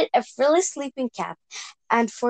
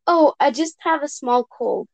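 squeaky wolf voice; 3 semitones higher than usual. Acted. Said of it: "squeaked the wolf".

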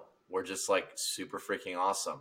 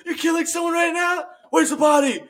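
high, hammed-up interrogation yell; police shouting; 11 dB louder than usual. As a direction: bellow it at the cornered suspect. Acted police interrogate the caller.

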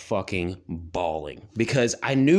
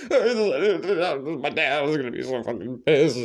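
laughing; 3 semitones higher, slower than usual. Retold or imitated. Sobbing kid, laughing retelling.

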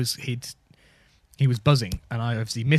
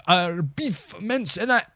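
The speaker; 5 semitones higher, much slower than usual. Acted. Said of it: "That's him saying".

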